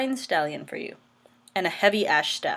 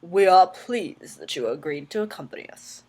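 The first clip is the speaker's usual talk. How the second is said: a hint of a regal king voice, half-hearted; lightly mock a royal voice she thinks sounds terrible; put-on king voice; 4 dB louder than usual. Shown as a demonstration. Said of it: "change my voice and make it like".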